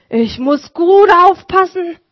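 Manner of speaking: gently voiced old cobbler; lightly voiced Vater Martin. Martin resolves.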